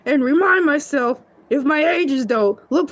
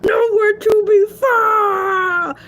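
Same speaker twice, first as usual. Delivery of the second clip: mock wail; 5 semitones higher, much slower than usual. Mock grief over missing uncle.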